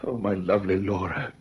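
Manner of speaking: soft, low and tender. Acted. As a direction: say her name softly, with longing. Patient thinks of his wife.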